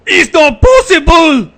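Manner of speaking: shouted in high, loud mock disbelief; a high yell of fake outrage; hammed-up shout. A player echoes the joke, shouting high in mock disbelief.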